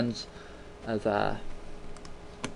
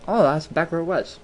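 imagined viewer; 5 semitones higher than usual. Retold or imitated. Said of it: "Now you're thinking".

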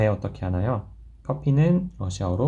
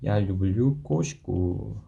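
slow model sentence; much slower than usual. Shown as a demonstration. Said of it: "꼬시까라고 하면 고양이예요".

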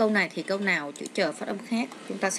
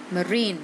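"marine" with RINE stressed; stress on second syllable. Shown as a demonstration. Teacher showing word stress to students, "marine" stressed on RINE. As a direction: slowly lean on the end syllable of "marine". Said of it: "nhấn âm hai".

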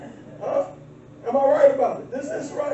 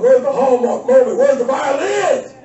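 mock outrage; 3 semitones higher, 3 dB louder than usual. Mock disappointment, shouted.

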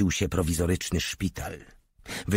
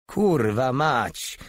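exclaimed curse; 5 semitones higher, much slower than usual. A narrator's reading. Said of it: "wykrzyknął Porta".

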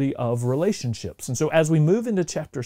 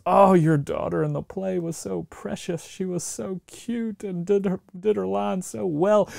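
gushing parent; 5 semitones higher than usual. Acted. Parent praising child after play.

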